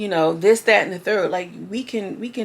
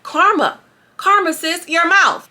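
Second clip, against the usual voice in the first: high, loud sassy taunt; mocking Ray; 8 semitones higher, 5 dB louder, slower than usual. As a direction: throw it at him with sass.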